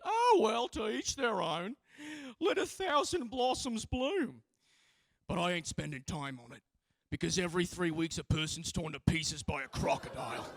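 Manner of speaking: a breezy, unbothered Australian politician; conservative politician. Retold or imitated. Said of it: "and he went".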